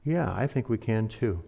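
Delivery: a touch of calm reassurance. Retold or imitated. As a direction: answer quietly, anger gone. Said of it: "with a very calm voice".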